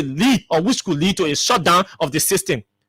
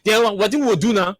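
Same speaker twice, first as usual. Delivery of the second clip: shouting the retold question. Commentator voicing the speaker's question, shouted. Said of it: "he said".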